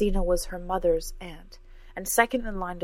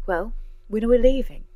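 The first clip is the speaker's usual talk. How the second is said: loud, higher, pushy question; impatient demand; 5 semitones higher, 9 dB louder than usual. Acted. Cora wants to know when they leave, loud and impatient. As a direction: press for an answer, voice raised.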